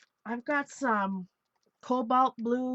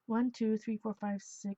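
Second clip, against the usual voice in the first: counting on a held breath; holding breath while counting; 3 dB quieter than usual. Real, not acted. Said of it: "I'm holding my breath as I do this".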